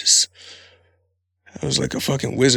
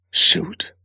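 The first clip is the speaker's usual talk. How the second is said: mock innocent; 5 semitones higher, 4 dB louder than usual.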